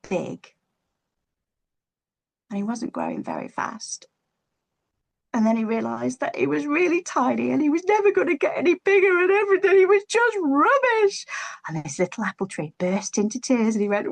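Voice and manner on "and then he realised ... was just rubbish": high, loud, despairing wail building up; rising despair. A narrator's reading. Narrating the little tree's despair in a wailing voice. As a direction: climb into a miserable childlike whine. Tree realises he is tiny.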